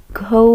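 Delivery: loud, clear घौ for the class; model syllable घौ. Shown as a demonstration. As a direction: say घौ so the class repeats it. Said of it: "घ में औ की मात्रा". (ज़ोर से "घौ" बोलकर दिखाना)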